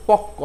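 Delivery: পক্ক said "pokko" with a held double ক; পক্ক with a long doubled ক; doubled k sound. Shown as a demonstration. Teacher demonstrating the double ক in পক্ক. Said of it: "কয়ের দ্বিত্ব উচ্চারণ হচ্ছে".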